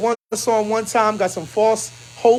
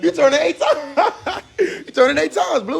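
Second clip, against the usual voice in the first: laughing tease; 6 semitones higher than usual. Real, not acted. Teasing, laughing.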